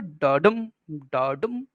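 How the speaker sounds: डाडम as two beats, small डा then bigger डम; heartbeat rhythm. Shown as a demonstration. Teacher imitating a heartbeat for iambic rhythm, stress on डम in डाडम. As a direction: beat out डाडम like a heart, pausing between repeats. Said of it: "फिर डम होगा बड़ा".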